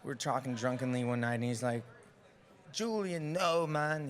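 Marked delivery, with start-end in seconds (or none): 2.7-4.1 put-on British accent. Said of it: "he's this British guy".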